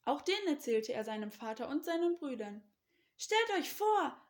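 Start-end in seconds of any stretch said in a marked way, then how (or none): 3.2-4.2 high, loud, drawn-out announcement; eager, wide-eyed exclamation; excited calling. A narrator's reading. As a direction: call out your amazing news slowly. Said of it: "rief er".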